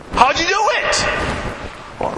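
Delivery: breathless whisper of curiosity; eager hushed question. Retold or imitated. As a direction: lean in and beg for the secret. Eager to learn the weight-loss secret.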